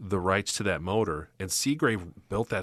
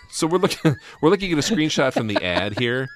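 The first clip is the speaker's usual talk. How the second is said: laughing; 6 semitones higher, 7 dB louder than usual. Real, not acted. Laughing at roof.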